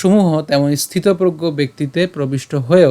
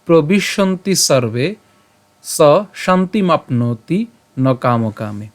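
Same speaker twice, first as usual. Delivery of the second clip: slow chanted Sanskrit verse; slow verse recitation; much slower than usual. Shown as a demonstration. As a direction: chant the shloka slowly, word by word. (ধীরে শ্লোক পাঠ)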